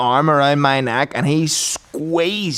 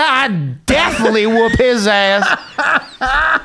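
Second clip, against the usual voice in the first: imitated roaring boast, pitched up; roaring coach; 5 semitones higher than usual. Coach calling out boxers within earshot, mock roaring. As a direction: drag out each threat like a hammed-up trash-talker. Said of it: "he's roaring".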